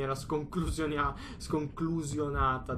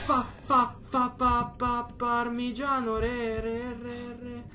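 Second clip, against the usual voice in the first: high shaken stutter, slowed; terrified stammer; 7 semitones higher, much slower than usual. Real, not acted. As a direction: stammer in fright. Stammering after scare.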